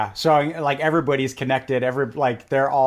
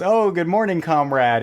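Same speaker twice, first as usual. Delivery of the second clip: son in joke; 4 semitones higher, 4 dB louder than usual. Retold or imitated.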